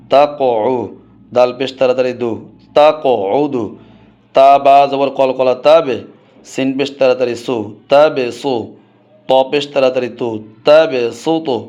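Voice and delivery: measured Qur'anic spelling recitation; spelling drill. Shown as a demonstration. Teacher spells out Qur'anic words for students, drill recitation. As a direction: recite each syllable in an even, practised rhythm.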